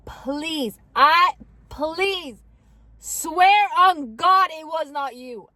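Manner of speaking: imitated begging, high and urgent; desperate motherly plea, acted out; pleading mom. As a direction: plead slowly, leaning on each word. Mom begging her to swear.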